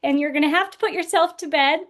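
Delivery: high, strained, half-shouted apology; retold yell. Exhausted mom yelling at her kids at bedtime, high and strained. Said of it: "I yelled at them and I said".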